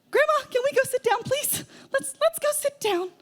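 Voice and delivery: high, gentle coaxing voice; soothing high pleading to an old woman. Retold or imitated. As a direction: coax grandma to sit like talking to a child. Coaxing confused grandma away.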